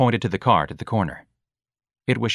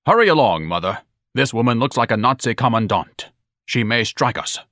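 urgent pompous son; 3 semitones higher, 3 dB louder than usual. Acted. Son alarmed, hurries his mother.

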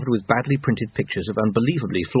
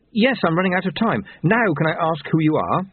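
higher-pitched, pressed and impatient; urgent young captive; 6 semitones higher than usual. Acted. Captive running out of time to his captor, urgent. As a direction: plead against the clock, voice raised in pitch. Voices Lobsang urgent in her grip.

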